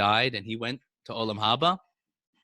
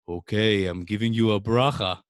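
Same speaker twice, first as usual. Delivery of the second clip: lowered, louder Rebbe voice; deep voice; 3 semitones lower, 4 dB louder than usual. Pretend. Student posing as Rebbe, giving a blessing. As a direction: play the Rebbe granting a blessing. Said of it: "pretending to be Rebbe Elimelech".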